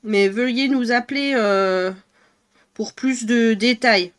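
slow official phone-message voice; mock customer service announcement; imitating a voicemail. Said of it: "le message vocal, c'était Chronopost".

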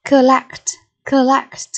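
"Collect" stressed on LECT; stress on second syllable. Shown as a demonstration. Teacher modelling vocabulary for pupils, "Collect" stressed on LECT. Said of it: "nhấn âm tiết số hai".

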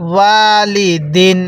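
ওয়ালিদিন with ওয়া stretched, slow; drawn-out ওয়া. Shown as a demonstration. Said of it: "ওয়াওয়ের মধ্যে টান দিবেন". (ওয়ালিদিন, ওয়া টেনে ধীরে)

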